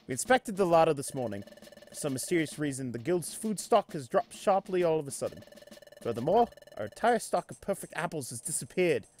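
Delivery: put-on amateur British accent, measured reading. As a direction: report it in a makeshift British accent. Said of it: "I'm doing the British accent".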